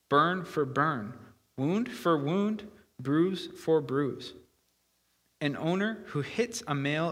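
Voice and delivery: deliberate, measured reading of Bible law; solemnly paced verse reading; scripture reading. A narrator's reading. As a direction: read out the law with weighty pauses between phrases.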